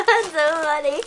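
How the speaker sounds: laughing. Real, not acted. Laughing at helium voices.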